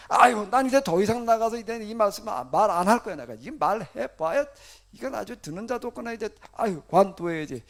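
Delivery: loud, exasperated acted complaint; lament. Preacher voicing Jeremiah refusing to preach, loud exasperated lament. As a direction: burst out as if ready to quit. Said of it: "예레미야는 뭘 탄식하는 건가".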